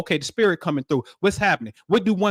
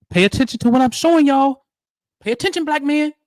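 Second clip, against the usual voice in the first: urgent call; 8 semitones higher, 4 dB louder than usual. Real, not acted. Urging listeners.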